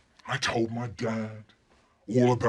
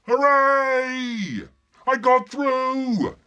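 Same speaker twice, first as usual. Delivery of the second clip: high, loud, stretched hooray; triumphant cheer; 11 dB louder, much slower than usual. Acted. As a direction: crow with victory. Triumphant cry to other smugglers.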